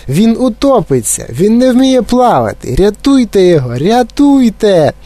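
very high, frantic plea for help; panicked cry. A narrator's reading. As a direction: plead for rescue, stretching the last cry. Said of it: "поблідла пані Глуп". (розпачливе благання про допомогу)

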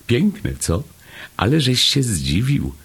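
high, gleeful small voice; delighted little Chomek. A narrator's reading. Chomek pleased at having surprised Paszczak, high delighted voice.

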